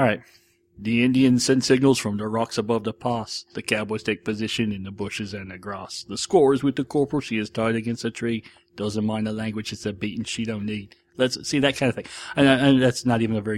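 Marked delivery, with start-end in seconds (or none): 0.8-11.0 imitated heavy British singer's accent; a rough copy of a heavy British accent; a band's singer. Shown as a demonstration. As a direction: recite lyrics in a heavy put-on British accent. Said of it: "he sings with a very heavy accent".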